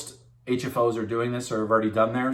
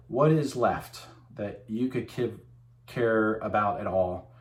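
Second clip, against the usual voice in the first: slow, deliberate delivery with pauses; slower than usual. Real, not acted. Presenter catching himself after rushing, deliberately slowed down. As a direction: take your time, spacing the words out. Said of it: "I should just slow down".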